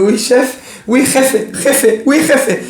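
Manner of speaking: meek player. Retold or imitated. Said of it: "Il va dire".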